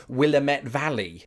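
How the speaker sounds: Willamette said wrong on purpose, stress on the middle "lam"; deliberately butchered Willamette. Shown as a demonstration. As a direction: mangle "Willamette" like a tourist. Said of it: "intentionally rebutchered".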